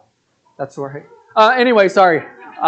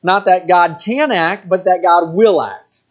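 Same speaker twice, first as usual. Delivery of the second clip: slow and weighted on can, then will; stress on can and will; slower than usual. Shown as a demonstration. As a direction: draw out "not that God can act, but that God will act". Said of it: "He says we must have faith".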